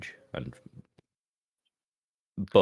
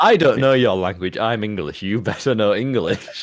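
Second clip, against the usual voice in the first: entitled English tourist; 4 semitones higher, 4 dB louder than usual. Retold or imitated. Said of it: "such an English person thing".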